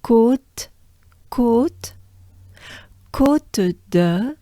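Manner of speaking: "Côte" with a long held O; sustained O. Shown as a demonstration. Teacher stretching the O of "Côte" for learners. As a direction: hold the O in "Côte". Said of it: "it's a little sustained".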